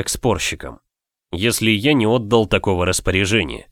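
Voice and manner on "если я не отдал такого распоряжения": normal talking voice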